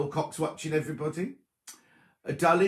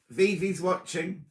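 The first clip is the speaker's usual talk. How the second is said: slow, higher-pitched announcement; speaking very slowly; 5 semitones higher, slower than usual. Real, not acted. Host announces the Brazilian nanny is watching, speaking slowly. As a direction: say it slowly for a foreign listener. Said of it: "have to speak very slowly".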